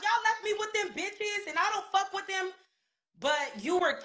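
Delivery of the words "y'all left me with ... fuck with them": imitated complaint. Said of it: "she's talking about".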